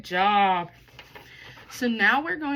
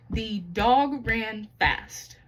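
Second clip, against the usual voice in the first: very slow, every word separated; one step per word for The dog ran fast; teacher stepping out a sentence slowly; 4 dB louder, much slower than usual. Shown as a demonstration. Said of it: "How many?".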